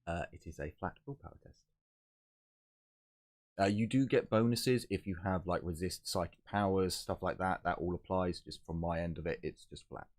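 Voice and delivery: sounding muffled, far from the mic; muffled and distant. Real, not acted. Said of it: "you're really muffled".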